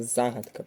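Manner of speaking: Загадка with the first syllable ЗА stressed. Shown as a demonstration. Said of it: "на перший склад падає наголос".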